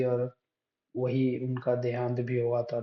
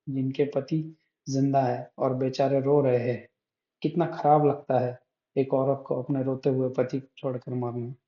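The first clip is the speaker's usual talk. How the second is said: earnest, declaimed Hindi poem reading; poem recitation. Acted. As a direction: recite the verse with firm, measured emphasis. Reads the poem aloud.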